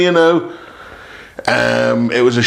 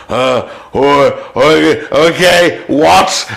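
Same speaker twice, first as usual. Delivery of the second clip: panicked confusion; 3 dB louder, much slower than usual. Retold or imitated. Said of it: "And I was just like".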